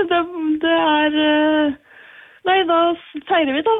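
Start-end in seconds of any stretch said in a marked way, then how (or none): none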